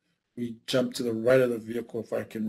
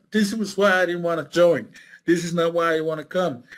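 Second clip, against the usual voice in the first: higher, louder mock wail without tears; imitated crying complaint; 6 semitones higher, 5 dB louder than usual. Young soldier from Alaska under fire, imitated crying complaint. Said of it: "he was crying like a baby".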